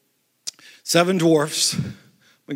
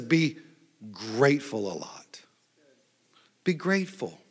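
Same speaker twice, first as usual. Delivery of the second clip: whispered advice; 6 semitones lower, 8 dB quieter than usual. Acted. Quoting scripture as hushed advice.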